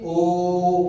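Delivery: ओ sung out long; prolonged vowel. Shown as a demonstration. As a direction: hold ओ in a long tone. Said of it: "ओ की बात करिए". (ओ को लंबा खींचकर बोलें)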